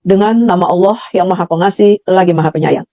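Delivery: low, measured imitation of a televised recitation; scripture translation reading. Shown as a demonstration. Showing how TV translates holy verses, low measured recitation. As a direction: recite it evenly, pitched low. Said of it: "Terjemahannya misalnya begini".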